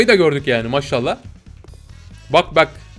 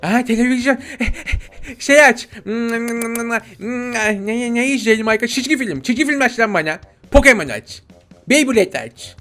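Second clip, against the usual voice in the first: put-on demanding baby voice with childish mispronunciations; Bebek Gaffur; 3 semitones higher than usual. Baby demanding cartoons from dad, childish pitched-up voice. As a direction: whine and order like a bossy toddler. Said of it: "Bebek Gaffur olalım".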